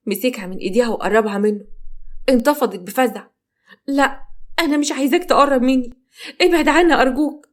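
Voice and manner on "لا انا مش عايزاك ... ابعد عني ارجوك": frightened bride pleading, pitched up; terrified pleading. Acted. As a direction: beg him in panic to stay away.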